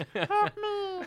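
very high, squeaky, tiny voice. Voicing a two-inch Master Chief toy whose head popped off: higher tiny Master Chief voice. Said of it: "why he was doing a higher voice".

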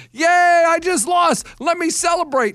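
mocking fake cheer. Mocking people who celebrate losing: mocking a happy loser. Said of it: "people saying you should be so happy to lose".

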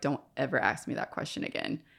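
dead-serious, grave whisper. Retelling how he answered a question about God: imitating a serious warning. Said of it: "he just got really serious".

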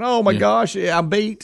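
very high, stretched-out, drawn-out panicky cry. Retelling a football play, voicing the beaten safety: imitating a panicking safety. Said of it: "you saw the safety panicking".

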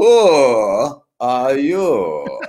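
put-on swooping Russian accent, drawn-out "who". At a party, greeting people walking by, the speaker uses a russian accent. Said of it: "The Russian accent".

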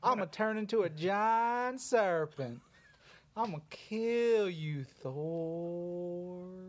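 hillbilly drawl with Thor stretched out. Pitching a Marvel idea to the others, playing Serpent in a hillbilly Serpent voice. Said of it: "You could play the hillbilly".

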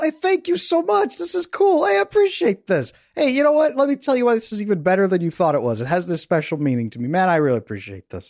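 put-on effusive gratitude, high and swooping. Voicing an imagined perfect partner thanking someone: put-on genuine gratitude. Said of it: "They're genuinely grateful".

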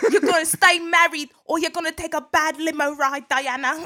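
put-on, attempted New Jersey Italian accent. Acting out a warning that someone must stay married; New Jersey Italian accent. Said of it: "trying to sound like he's like from New Jersey".

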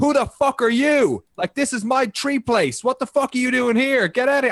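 mock screeching creature tirade, very high and furious. Describing a vr game, the speaker voices the creature from the tree; imitating a screaming creature. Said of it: "And he's like screaming at you".

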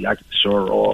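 plain

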